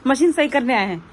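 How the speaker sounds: firm, loud sit commands; loud commands to the dog. Real, not acted. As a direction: order the dog to sit while the technician works. Ordering dog away from technician. (कुत्ते को ज़ोर से बैठने का हुक्म)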